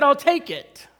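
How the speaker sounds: impatient eager repeat. Retold or imitated. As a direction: cut him off, desperate to have the car.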